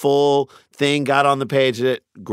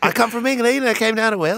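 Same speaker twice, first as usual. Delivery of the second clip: put-on Welsh accent; 8 semitones higher than usual. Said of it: "is that your Welsh accent?".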